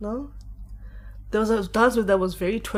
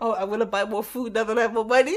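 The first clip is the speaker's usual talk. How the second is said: ordinary delivery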